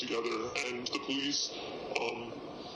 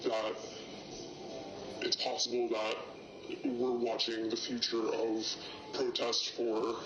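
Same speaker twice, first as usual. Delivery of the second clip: distorted, pitched-down anonymous voice; disguised deep voice. Real, not acted. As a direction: voice disguised for safety. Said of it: "Their voice has been distorted for their safety".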